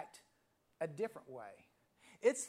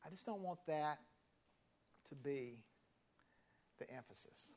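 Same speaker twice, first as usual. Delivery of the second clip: fading to much softer, letting each word land; slow pondering repeat; 4 semitones lower, 6 dB quieter than usual. Shown as a demonstration. Pastor mulls over the groom's words, fading to a hush. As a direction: say it back slowly, almost to yourself. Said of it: "I let that settle with me".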